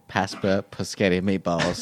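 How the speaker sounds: Paschetti with a pasch sound, pus-KET-ee, for spaghetti; childish mispronunciation. Acted. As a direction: garble Paschetti like a small child. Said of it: "Couldn't even pronounce spaghetti".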